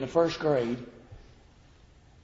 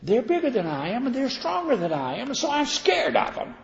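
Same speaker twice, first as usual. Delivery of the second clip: a hint of a scared whine, rising higher; mock fearful; 10 semitones higher than usual. Preacher voicing the scared excuse, mildly whining. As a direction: play the frightened excuse lightly. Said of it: "I said".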